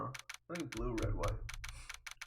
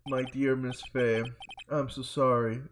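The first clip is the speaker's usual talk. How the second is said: smug villain; 2 semitones lower, 7 dB louder than usual. Acted.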